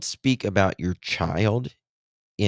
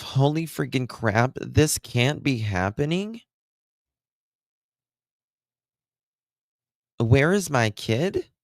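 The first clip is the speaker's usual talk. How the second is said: higher, sing-song mock panic; mocking imitation of the mother; 5 semitones higher than usual. Commenter parodying the mother's interview, high and mocking. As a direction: parody her deadpan, raised pitch. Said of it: "she just got a face full of Botox".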